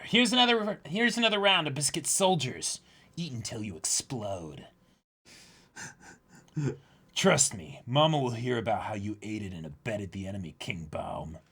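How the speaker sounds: lightly voiced cartoon villain; villain dub reading. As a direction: read the villain line with mild menace. Voicing One Piece villain dialogue.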